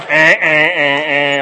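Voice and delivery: loud laughing eh eh eh. Real, not acted. Dad laughing at the lights over his daughter's answer.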